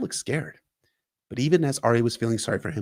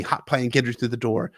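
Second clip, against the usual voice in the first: usual speaking voice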